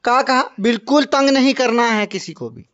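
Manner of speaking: playful pretend telling-off; lightly stern, as if laying down the law; mock scolding. Man telling a child not to bother anyone, mock stern.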